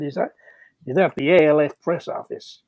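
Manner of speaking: a rough imitation of an American accent. Stockbroker phoning the press office, in a rough American accent. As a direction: put on a generic Hollywood American accent. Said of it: "Don't make me do an American ac".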